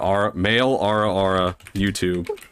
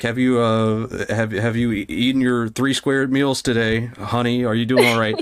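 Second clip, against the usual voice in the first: caring, motherly. Pretend. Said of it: "I'm more of like".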